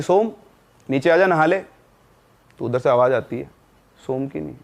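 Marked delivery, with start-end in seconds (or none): 0.0-1.6 put-on girl calling her brother down from the roof, mildly raised voice; higher, lightly raised call up the stairs. Sister calls brother down from roof, mild calling voice. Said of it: "तो उसने आवाज़ दी".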